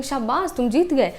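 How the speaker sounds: a touch of surprised praise; exclamation of wonder. Shown as a demonstration. Teacher shows how an exclamation mark sounds, mildly exclaiming. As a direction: lightly exclaim it, as a demonstration. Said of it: "हाँ हमें आश्चर्य दिखाना है".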